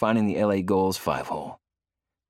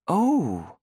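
much higher drawn-out wail; 12 semitones higher, 3 dB louder than usual. Acted. Heidi sees the singer in a Dallas jersey, wailing. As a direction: wail it in dismay. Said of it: "Heidi wails".

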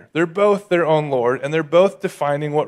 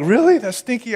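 incredulous; 6 semitones higher than usual. Acted. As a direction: scoff at the stinky river. Naaman's disgust at the river.

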